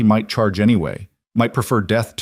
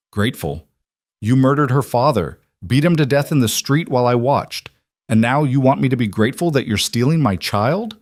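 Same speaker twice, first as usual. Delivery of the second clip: outraged; 5 semitones higher than usual. Acted. Mother confronts daughter's abductor.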